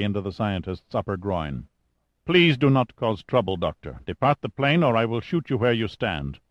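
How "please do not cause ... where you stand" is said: lightly voiced officer, formal and menacing; threatening pilot. Armed lieutenant warning the doctor to leave, threatening. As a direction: warn firmly, with controlled formality.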